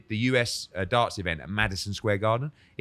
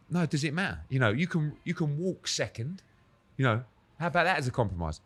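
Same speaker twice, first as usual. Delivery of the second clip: retold pleading; 6 semitones higher than usual. Voicing himself pleading in negotiation.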